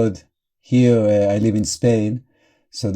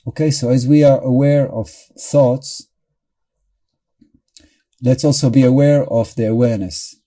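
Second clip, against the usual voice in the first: measured guiding voice with long pauses; guided meditation. Real, not acted. Meditation teacher guiding listeners into awareness of thoughts and breathing, in a measured guiding voice. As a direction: lead them gently through it, leaving long silences.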